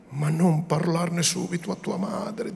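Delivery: a touch of annoyance softened by love; mild pique, affectionate. A narrator's reading. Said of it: "con una certa stizzetta temperata d'amorevolezza". (stizza leggera temperata d'affetto)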